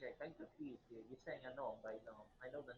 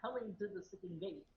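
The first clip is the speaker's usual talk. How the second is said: loud, higher indignant objection; loud protest; 4 semitones higher, 9 dB louder than usual. Real, not acted. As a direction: push back loudly. Player protests loudly.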